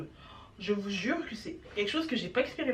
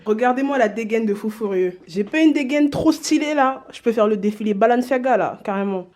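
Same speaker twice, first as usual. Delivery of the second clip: loud, excited showing off; hyped up; 9 dB louder than usual. Real, not acted. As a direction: show it off loudly, hyped.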